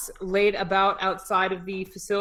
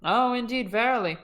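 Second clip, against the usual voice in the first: put-on Shakespearean British accent; 4 semitones higher than usual. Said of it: "This is what Russian sounds like".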